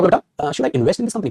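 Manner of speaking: drawn-out asking tone; slow rising question. Shown as a demonstration. Teacher again slowly modelling the same question. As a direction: slowly lift the end of the question. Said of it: "अब मैंने कहा".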